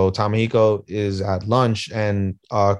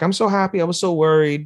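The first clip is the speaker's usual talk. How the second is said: happy and relieved; 7 semitones higher than usual. Retold or imitated. Wife relieved by husband's reassuring lie.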